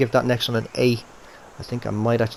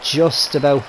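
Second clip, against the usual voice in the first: excited; 6 semitones higher, 6 dB louder than usual. Real, not acted. Ball creeps in, excited.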